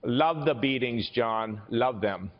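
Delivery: a slow mock Arnold accent; Arnold's accent. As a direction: imitate Arnold's accent, taking it slowly. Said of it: "Did he use that accent?".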